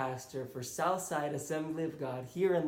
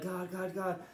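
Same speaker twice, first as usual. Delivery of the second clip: a mild retold scream of a desperate prayer; pleading cry to God; 5 semitones higher than usual. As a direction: beg God in a raised, pleading voice. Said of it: "like, screaming".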